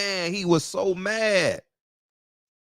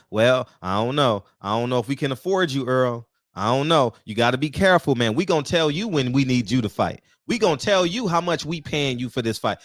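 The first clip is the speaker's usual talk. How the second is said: lower, condescending mock executive; mock dismissive boss; 4 semitones lower than usual. Vlogger imitating the executive stiffing Earl, lower and dismissive. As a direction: brush the fighter off like a smug boss.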